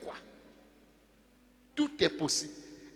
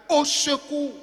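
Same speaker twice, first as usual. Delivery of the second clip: disciples' cry; 4 semitones higher than usual. Retold or imitated. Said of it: "ils ont crié".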